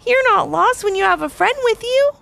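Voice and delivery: smiling reassurance. A narrator's reading. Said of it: "smiled Levi".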